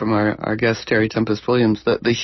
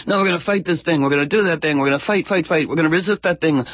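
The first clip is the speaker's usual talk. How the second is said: mock activists droning on a raised pitch; one long tone; 5 semitones higher, faster than usual. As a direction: run the slogans together in one high, unbroken tone. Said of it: "in one long tone".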